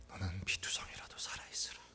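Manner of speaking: breathy whisper, no voice at all; whispered verse. Acted. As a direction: whisper God's word as a secret. Same verse whispered, later spoken.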